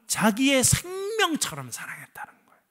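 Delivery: sudden hushed whisper. Real, not acted. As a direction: lean in and breathe it out. Pastor drops to whisper for emphasis.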